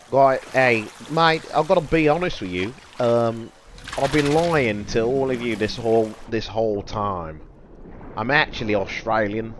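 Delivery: mock confession in Australian accent; attempted Australian accent. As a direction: put on a rough Australian accent. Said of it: "I can't do an Australian accent".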